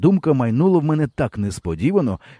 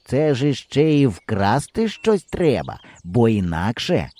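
a lightly voiced hesitant boy; a boy raising a doubt; doubtful boy; slower than usual. Boy character voice.

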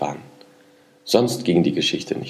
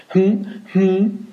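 thoughtful hum; 11 semitones higher than usual. A narrator's reading. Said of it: "machte das Männchen jetzt und rollte mit den Augen".

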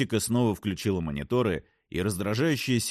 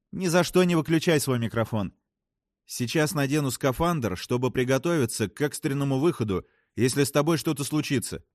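higher, brisk instructions to crewmates; lightly voiced astronaut, pitched up; lightly voiced spacewoman; 5 semitones higher than usual. Voices a story character. (слегка сыгранная астронавтка, повыше)

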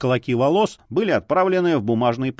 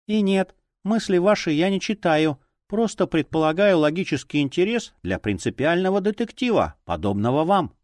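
talking doll; 5 semitones higher than usual. Acted. Doll character speaks.

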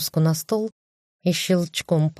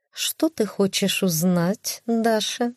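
cat voice; 3 semitones higher, slower than usual. Acted. Cat voice, slow.

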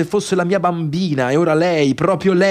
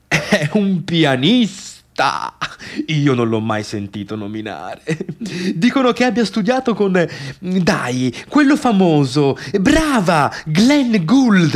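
a lightly voiced chatty lady, rising on the famous name; gossiping ladies. Church ladies gossiping at the wedding, lightly mimicked. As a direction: mimic the gossips, then lift onto the famous pianist's name. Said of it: "Diranno disperazione ad alta voce".

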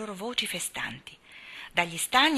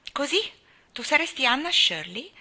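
a hint of a sour old woman, higher and louder; grumpy old aunt; 7 semitones higher, 6 dB louder than usual. A narrator's reading. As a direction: sniff at the girl like a cranky old aunt. Old aunt voiced by narrator. (la zia scorbutica accoglie Anna con sospetto, tono acido)

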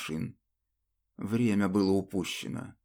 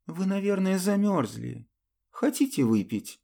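caring; 8 semitones higher than usual. Acted. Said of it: "заботливо спросила".

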